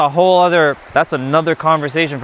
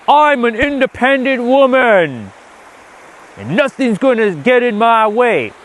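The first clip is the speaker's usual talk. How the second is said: independent woman; 8 semitones higher, 3 dB louder than usual. Retold or imitated. Mocking the masculine woman, high loud defiant. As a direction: play a brash, self-assured woman. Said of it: "the masculine woman who's like".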